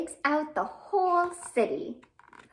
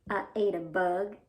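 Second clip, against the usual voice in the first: lower, lightly voiced worm; 5 semitones lower than usual. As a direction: answer like a sheepish little worm. Worm answers in the rhyme.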